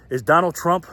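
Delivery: starting the question but breaking into laughter; words slipping into a real laugh; laughing while asking. Real, not acted. Host asks viewers, can't hold back laughter. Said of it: "I can't even say it without laughing".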